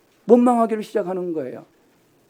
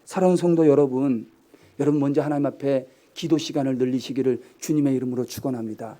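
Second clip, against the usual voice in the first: ordinary delivery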